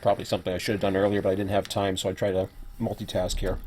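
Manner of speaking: eating while talking; messy loud eating. Real, not acted. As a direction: talk through a mouthful. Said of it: "I'm gonna be talking with my mouth full".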